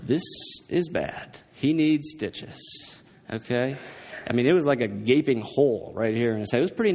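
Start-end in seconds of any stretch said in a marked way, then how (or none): 0.0-3.8 hushed inner voice, held soft and calm; quietly to myself. Retold or imitated. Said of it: "quietly to myself".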